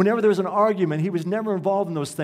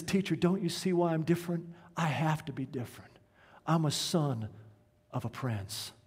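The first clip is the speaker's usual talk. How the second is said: quiet, halting retelling of tearful words; crying boy, understated; 6 dB quieter than usual. Retold or imitated. Crying pupil explains himself to his teacher, subdued sorrow. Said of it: "he's telling his story and he's crying".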